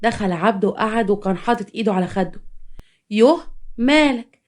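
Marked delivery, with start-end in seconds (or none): 3.1-4.4 slow, drawn-out questioning with playful fuss; coquettish concern. Acted. Mistress asking her glum lover, coquettish concern. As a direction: fuss over him, stretching the words.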